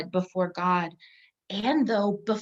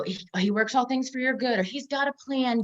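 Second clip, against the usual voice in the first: bright, higher mock reassurance, a little louder; mock upbeat platitude; 4 semitones higher, 3 dB louder than usual. Quoting upbeat church clichés, lightly mocking platitude. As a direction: parrot the cheery church line. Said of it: "that sort of platitude of, um, wanting to encourage".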